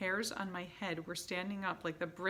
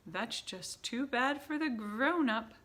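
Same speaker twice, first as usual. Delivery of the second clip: slow, louder, scornful reply; dismissive witch; 6 semitones higher, 6 dB louder, slower than usual. A narrator's reading. Grand High Witch dismissing a question, slow and scornful. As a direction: brush it off with cruel scorn. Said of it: "said the Grand High Witch".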